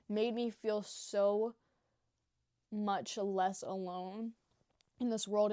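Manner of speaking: slow, heartfelt words; sincere, slow. Real, not acted. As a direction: let each word land slowly. Heartfelt thanks to Tana.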